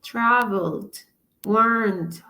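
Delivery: "traveled, warned" with -ed as a final d; ending said as D. Shown as a demonstration. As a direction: end "traveled, warned" on a voiced d. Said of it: "it sounds at the end like a D".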